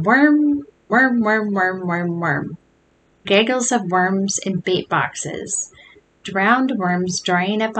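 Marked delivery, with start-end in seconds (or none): 0.0-2.6 a looping thought that runs down like a wind-up toy; obsessive repetition. A narrator's reading. Obsessive thought repeated, fading away.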